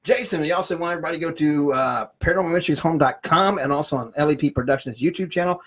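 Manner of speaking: rushed without a breath; all in one breath. Real, not acted. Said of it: "I said all that in one breath".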